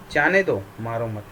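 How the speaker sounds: "जाने दो" ज़ोर से, फिर "मारो मत" उतरते स्वर में; "जाने दो" पर बल देकर "मारो मत" नीचे छोड़ें; विराम का उदाहरण. Shown as a demonstration. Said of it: "ठहराव को विराम कहते हैं". ("जाने दो" उभरा हुआ, "मारो मत" दबा हुआ)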